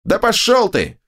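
high creaky snap; creaky snapping voice. A narrator's reading. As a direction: snap it back through tears. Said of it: "огрызнулся скрипучий голос".

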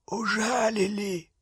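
hoarse, soft wheeze; wheezing. Acted. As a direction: croak it out in pain. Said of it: "просипел Гарри".

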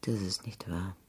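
breathy whispered disbelief; a woman whispers to the man who came back. Acted. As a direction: barely voice it, stunned. Quiet late-night reunion.

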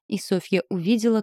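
ordinary delivery, nothing marked

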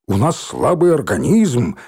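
usual speaking voice

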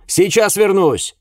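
high, drawn-out shout; loud parting call, pitched high; called over the shoulder. A narrator's reading. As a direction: yell back while running away. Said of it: "бросил я через плечо".

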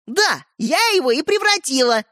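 put-on high, lightly amused girl. A narrator's reading. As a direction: say it with playful glee. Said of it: "засмеялась Ариша". (весело, со смешком)

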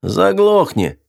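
high, sharp shut-up; bandit's snap. A narrator's reading. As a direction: bark it at the old man. Bandit snaps at old man. (резкий окрик)

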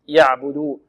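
يعبدوا with a moderately sounded ayn, neither cut nor dragged; medium ayn. Shown as a demonstration. Teacher correcting the mistake, medium ayn. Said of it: "وإنما هي متوسطة".

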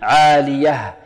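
عالية ending in an audible breathed h; clear final haa. Shown as a demonstration. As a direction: finish عالية on a clearly sounded h. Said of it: "لا بد من إيضاح الهاء".

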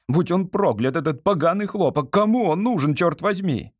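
high-pitched exasperated ranting; angry cursing. Acted. Examinee cursing the cotton he was assigned, angrily. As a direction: curse it with rising indignation. Мюллер rages on about cotton.

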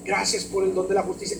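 soft murmured thanks to God; hushed grateful prayer. Shown as a demonstration. Believer meditating and thanking God, soft murmur. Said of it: "Cuando tú empiezas a repetir".

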